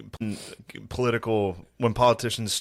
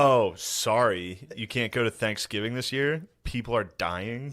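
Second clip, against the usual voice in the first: mock the mayor's sass; sassy mock mayor. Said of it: "he was sassy".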